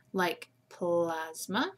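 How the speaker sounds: "plasma" slowly, ending on a schwa. Shown as a demonstration. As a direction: stretch out "plasma" and land on the final "uh". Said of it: "the uh sound is at the end".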